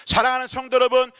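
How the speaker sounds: acted preaching appeal on a high pitch; imitated pastor's exhortation. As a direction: call out to the flock like a pastor. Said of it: "이렇게 외쳤어요".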